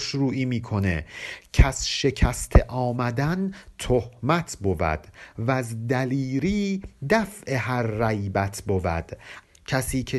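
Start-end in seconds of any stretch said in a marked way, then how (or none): 1.5-9.1 slow, measured verse reading; poem recitation. Acted. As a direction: chant each line of the couplet slowly. (خوانش آهسته و موزون شعر)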